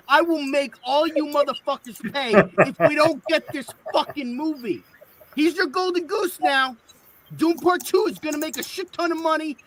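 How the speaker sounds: hammed-up Brooklyn Italian tough guy, swearing; Brooklyn Italian rant. Fan threatens WB bosses in a mock Brooklyn Italian rage. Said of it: "I was going for more Brooklyn Italian".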